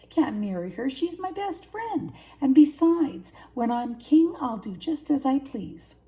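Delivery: high loud bragging; proud cub boasting loudly; boastful cub. A narrator's reading. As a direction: puff up like a little king. Cub boasts about being king.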